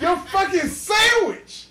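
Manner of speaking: high, drawn-out exasperated yell; aggressive. Retold or imitated. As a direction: imitate a fed-up counter guy. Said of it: "he is aggressive as fuck".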